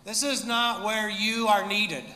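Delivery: mock demon trash talk; smack talk. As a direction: taunt Jesus like a bully. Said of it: "preemptive smack talk".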